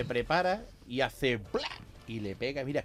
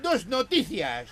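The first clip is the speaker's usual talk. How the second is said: ghostly voice; 12 semitones higher than usual. Acted. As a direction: speak like a ghost from beyond. Ghost voice continues.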